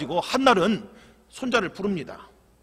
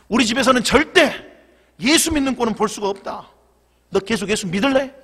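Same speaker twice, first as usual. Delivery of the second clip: stern grandfather; 4 dB louder than usual. Acted. Grandfather demands, threatening.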